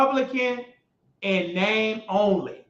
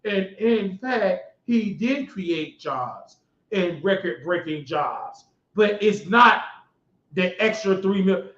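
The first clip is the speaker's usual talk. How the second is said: lower, slower mock newsreader drone; lightly voiced boring anchor, slower; 5 semitones lower, 4 dB quieter than usual. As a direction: parody a dull TV anchor. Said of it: "They want you to talk real slow".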